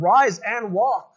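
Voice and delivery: lightly acted order to get up; mild apostolic command. Quoting Peter's command to lame man.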